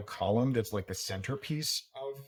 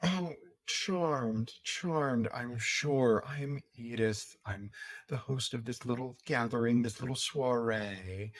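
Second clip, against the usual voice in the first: gracious society hostess. Acted. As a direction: purr like a bored, gracious hostess. GM plays the hostess.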